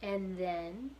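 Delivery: Roscuro's gentle coaxing "And then" with a rise; encouraging. Acted. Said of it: "encouraged Roscuro".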